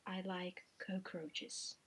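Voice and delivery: slow demonic whisper; sexy whisper. Shown as a demonstration. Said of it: "How do you say it?".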